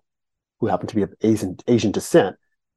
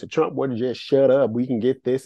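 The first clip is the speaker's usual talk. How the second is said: little Southern voice. Retold or imitated. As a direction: lightly mimic Jeff Sessions, small and Southern. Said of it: "in this little Southern voice, small voice".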